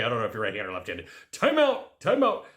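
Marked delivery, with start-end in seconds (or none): 1.3-2.5 high, punchy call; calling time out. Shown as a demonstration. Showing viewers how to halt a loop, calling out. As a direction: call it out like halting play.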